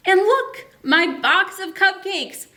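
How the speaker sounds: a touch of delighted puzzlement; puzzled astronaut. Acted. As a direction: astronaut finding his cupcake box, mildly surprised. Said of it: "it says".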